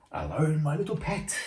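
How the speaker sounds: disguised queen luring Snow White; sly old lady. Acted. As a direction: coax her like a sweet-talking hag.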